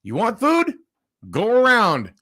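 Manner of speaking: half-whispered smug brush-off; mock her smug brush-off; smug dismissal. Host imitating the worker dismissing him, half whispered. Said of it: "And she goes".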